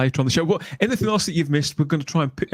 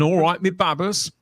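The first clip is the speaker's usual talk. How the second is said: a light, higher-pitched stab at Bristolian; attempted Bristol accent; 3 semitones higher than usual. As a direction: have an unsure go at a Bristol accent. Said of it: "I can't do that accent".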